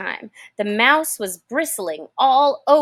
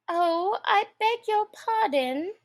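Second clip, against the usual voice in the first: put-on higher, hurried girlish apology; hasty apology; 11 semitones higher than usual. A narrator's reading. Alice hastily apologizes to the frightened mouse. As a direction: rush the sorry out. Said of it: "cried Alice hastily".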